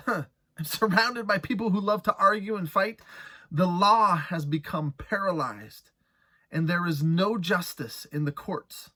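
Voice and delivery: earnest lament reading from the pulpit; impassioned scripture reading. Acted. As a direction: plead through the verses like a prayer.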